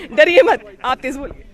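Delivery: loud, amused, drawn-out reply; laughing reassurance. Real, not acted. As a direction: laugh as you say it, loudly. Laughs at his request to soften.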